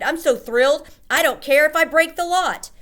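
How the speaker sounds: high, loud joyous cry; thrilled shout. A narrator's reading. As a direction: grandmother too happy to care. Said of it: "she shouted".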